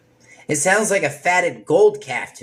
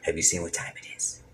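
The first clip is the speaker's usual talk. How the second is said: mock impatient prayer; 10 semitones lower, 8 dB quieter than usual. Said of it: "we're like".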